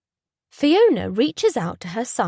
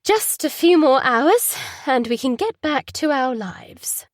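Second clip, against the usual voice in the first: forced cheer; 5 semitones higher, 4 dB louder than usual. Acted.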